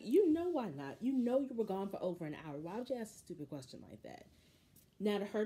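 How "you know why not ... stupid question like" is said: exasperated outburst. Real, not acted. Vlogger venting at the husband on screen, loud exasperation.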